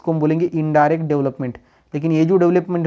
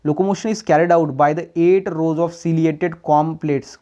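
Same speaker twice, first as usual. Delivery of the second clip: every word spaced out for students to copy; slow dictation; much slower than usual. Shown as a demonstration. Teacher dictating notes slowly to students. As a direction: read it slowly so the class can write it down.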